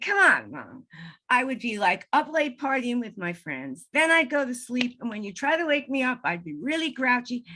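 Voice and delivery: loud, lively quote of an exasperated son; imitated chiding son. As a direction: voice a son good-naturedly chiding his mom. Mother voices dead son chiding her.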